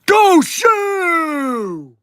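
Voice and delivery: high, loud cheering yell; cheering shout. Real, not acted. Fan ending the stream with a high, loud cheer. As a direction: shout it like a rally cry.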